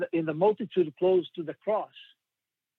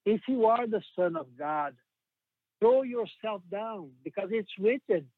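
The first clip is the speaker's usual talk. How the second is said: tempting little voice; 4 semitones higher than usual. Acted. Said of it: "Satan was there too, with a little voice".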